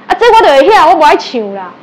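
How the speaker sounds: mimicking the student's angry refusal; stubborn retort. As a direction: snap back in a huff. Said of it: "他是真的在发脾气".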